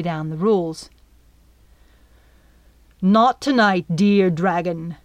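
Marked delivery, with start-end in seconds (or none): 3.0-5.0 commanding. Acted. Captain commanding the dragon, full of cool authority. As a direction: lay down the law to the beast. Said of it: "power and authority in his voice".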